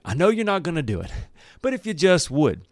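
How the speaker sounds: mock-weary Moses pleading, pitched high; imitated exasperated pleading. Moses voiced pleading with Israel.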